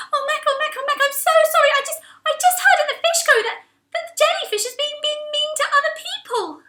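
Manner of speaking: very high, rushed sorry; Angel apologising. Acted. Angel rushes to say sorry to Mac, very high. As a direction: gush out the apology.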